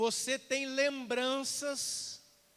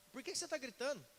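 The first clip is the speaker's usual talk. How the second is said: much softer, acted puzzled question; quiet objection; 9 dB quieter, faster than usual. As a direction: softly ask the shouter why. Quiet reply to loud talker.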